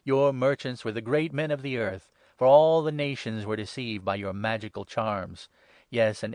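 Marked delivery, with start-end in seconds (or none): none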